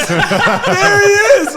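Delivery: drawn-out, high, very loud holler; redneck scream. Acted. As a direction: scream it like a redneck spotting someone. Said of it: "and he screams".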